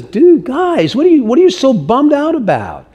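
lightly voiced casual Jesus. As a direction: play Jesus like a laid-back friend.

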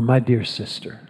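kindly and sincere toward an opponent; respectful address. Retold or imitated. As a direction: imitate a gracious debater, gently. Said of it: "he'll say something like this".

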